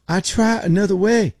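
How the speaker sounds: high mock Filipino accent; terrible Filipino accent. Agent after the video link failed, mock Filipino accent. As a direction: imitate the agent in a badly faked Filipino accent. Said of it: "That's a terrible accent".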